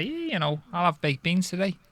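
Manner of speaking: Steven Gerrard impression. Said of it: "Just watch Steven Gerrard and say".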